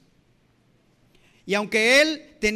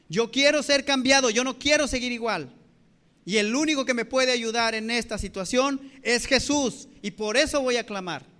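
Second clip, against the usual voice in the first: mildly raised, emphatic voice of a man resolved; clamor decidido actuado; 3 dB louder than usual. Acted. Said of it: "Él dijo". (declaración actuada, firme y enfática)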